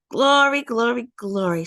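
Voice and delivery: high burst falling away; a touch of fond rejoicing; joyful glory. A narrator's reading. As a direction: sing out the first glory, then soften. Remembering happy farm days.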